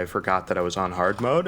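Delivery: usual speaking voice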